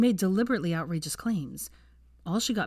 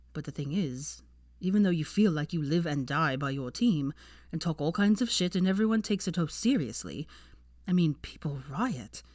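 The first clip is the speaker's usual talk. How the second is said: put-on calm young man. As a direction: talk her down gently about Quidditch. Draco voiced, calm explanation.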